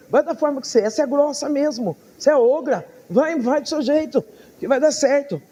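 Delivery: God telling her off fondly; mock blunt encouragement. God scolding her fondly, acted. (bronca carinhosa imitada)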